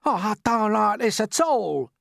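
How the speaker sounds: high, slow, loud wail. Acted. Earthworm complaining to James, slow high wail. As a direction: moan it out in misery. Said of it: "wailed the earthworm".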